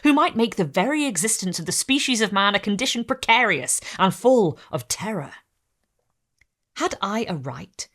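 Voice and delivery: measured, solemn reading of a gothic novel; gothic story narration. A narrator's reading. Host reading Frankenstein to viewers, solemn narration. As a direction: read it like a tale by candlelight. Reads novel extract aloud.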